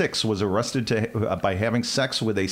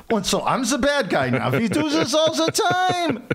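hammed-up German accent voice. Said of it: "but I can do a German one".

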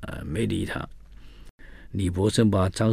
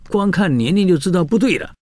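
higher and louder, an indignant emperor; emperor's rebuke; 9 semitones higher, 7 dB louder, faster than usual. Retold or imitated. Emperor rebukes the officials over the faked case, higher and louder. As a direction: snap at the judges, raised and sharp. Emperor exposes the wrong prisoner.

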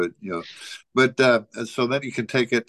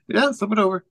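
imitating him; 10 semitones higher than usual. Retold instruction, raised pitch.

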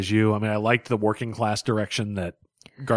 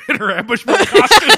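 laughing loudly; 9 dB louder than usual. Real, not acted. Laughing joke shout.

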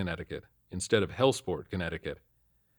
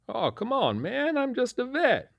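much higher, slow whine; whining. A narrator's reading. Confused old man whining to the officer, much higher and slow. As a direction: plead like a wounded old vet. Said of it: "he whined".

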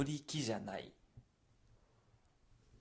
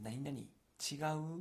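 何々違う said as a question, lifting on う; 3 semitones higher than usual. Shown as a demonstration. Teacher glossing Kansai ちゃん for learners, questioning. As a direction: ask 何々違う, rising at the end. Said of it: "って聞いてるんですね".

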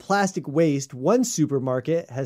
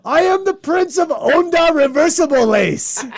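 grand royal voice; 11 semitones higher, 6 dB louder than usual. Pretend. Mock royal self-introduction.

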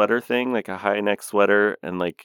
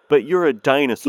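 imitating Whoopi; 7 semitones higher, 4 dB louder than usual. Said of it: "her whole contribution to the scene is".

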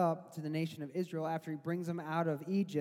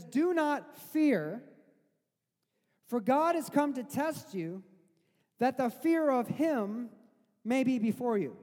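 slow, weighty reading of Moses's words; solemn scripture reading; 6 semitones higher, 4 dB louder, slower than usual. Retold or imitated. Preacher quoting Moses to the frightened people, slow and solemn. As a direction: read it out slow and grave, letting each phrase land. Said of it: "he says".

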